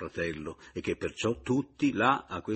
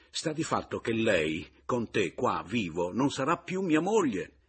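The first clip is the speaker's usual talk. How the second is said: indignant husband; 4 semitones higher, 6 dB louder than usual. Acted. Husband confronts rival.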